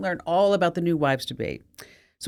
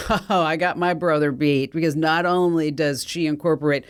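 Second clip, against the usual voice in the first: smug. Acted. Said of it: "smiles smugly and says".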